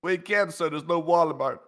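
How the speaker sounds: a hint of a glum aide; lightly voiced subordinate refusing.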